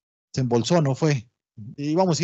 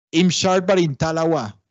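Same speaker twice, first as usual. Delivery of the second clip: Limón Creole. Shown as a demonstration. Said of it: "O, por ejemplo".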